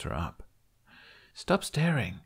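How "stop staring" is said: griping. A narrator's reading. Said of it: "she griped".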